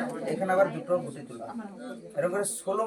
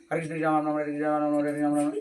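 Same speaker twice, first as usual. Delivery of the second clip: wrong careless way; 3 semitones lower, faster than usual. Shown as a demonstration. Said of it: "আপনি এমন ভাবে নয়".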